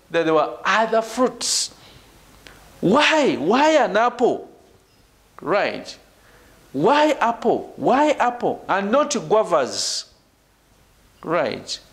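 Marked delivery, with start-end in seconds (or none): 3.3-4.5 "apple" stressed, with a falling end. Shown as a demonstration. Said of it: "when I put emphasis". 6.7-10.1 "apple" stressed each time, set against "guavas"; weight on "apple", falling after it; contrastive stress on apple. Shown as a demonstration. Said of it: "when I put emphasis".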